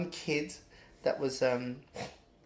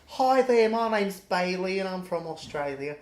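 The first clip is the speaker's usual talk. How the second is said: imitated Australian accent; 3 semitones higher, 4 dB louder than usual. Imitating Australian passengers introducing themselves.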